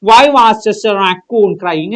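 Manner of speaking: slow, drawn-out reading of the question. Shown as a demonstration. Teacher reading the exam question slowly to students. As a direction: read each word slowly for the class.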